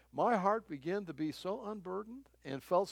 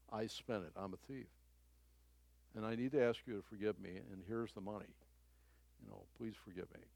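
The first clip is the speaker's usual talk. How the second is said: much softer, hushed plea for forgiveness; quiet confession; 7 semitones lower, 11 dB quieter, faster than usual. Retold or imitated. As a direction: drop almost to a murmur, fast, pleading. Tearful confession retold.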